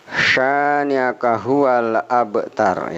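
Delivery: "abtar" with the b bounced, slow; qalqalah abtar. Shown as a demonstration. Teacher models qalqalah in "abtar". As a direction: echo the b in "abtar". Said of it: "bukan abtar tapi abtar".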